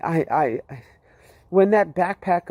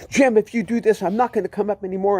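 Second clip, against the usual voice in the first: pleading protest; 5 semitones higher, faster than usual. Retold or imitated. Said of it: "I'm throwing up my hands and I'm saying".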